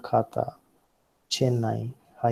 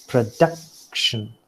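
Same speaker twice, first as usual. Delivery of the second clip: "production" said slowly, with the middle syllable standing out; stress on second syllable; slower than usual. Shown as a demonstration. Lecturer showing students the first example word, "production" stressed on its middle syllable. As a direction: stretch "production", accent on the middle syllable "duc". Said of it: "duck stands out".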